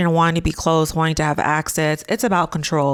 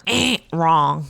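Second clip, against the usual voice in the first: mock buzzer. Imitated buzzer for wrong answer.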